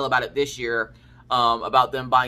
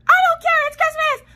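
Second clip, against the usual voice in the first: much higher and louder, playful shout; loud mock yell; 7 dB louder than usual. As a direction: yell him awake, half-joking. Mom insisting loudly.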